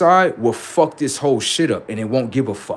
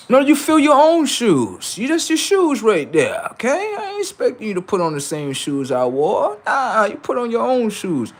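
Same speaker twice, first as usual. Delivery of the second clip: raised voice scolding his son; fatherly lecture; 10 semitones higher than usual. Acted. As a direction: talk down to the kid, pitched way up.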